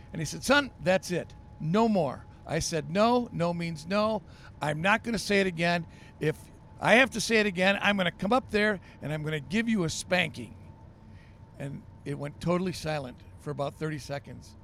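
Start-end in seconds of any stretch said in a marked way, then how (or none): 0.4-10.5 exasperated dad. Acted. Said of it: "his temper was at its, its wit's end".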